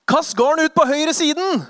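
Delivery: loud, high, slow command; commanding call. Acted. Jesus telling the fishermen where to cast, loud. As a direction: call out the order across the water. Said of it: "Jesus sier".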